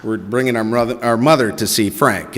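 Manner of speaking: low, polite and formal; a touch of formal politeness to the maitre d'; mock formal greeting. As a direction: play the well-mannered son. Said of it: "I said".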